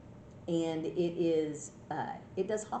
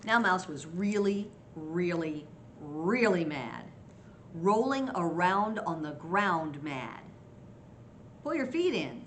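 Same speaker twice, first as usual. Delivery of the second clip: lively picture-book reading; story narration. A narrator's reading. Grandma reads Hare's scolding to children, storytelling voice. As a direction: read expressively, as if to small children.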